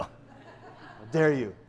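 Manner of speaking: slow, drawn-out mock Spanish accent; Inigo Montoya. Pastor voicing Don Quixote's affront, hammy slow Spanish accent. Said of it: "He speaks like that, Inigo Montoya".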